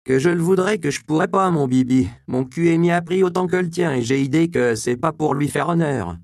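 the prostitute answers Andreas with coarse cheek; Magdala, earthy. A narrator's reading. Magdala's coarse popular speech. (Magdala gouailleuse, voix plus aiguë et plus forte)

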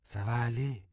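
like a promise. A narrator's reading. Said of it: "comme une promesse".

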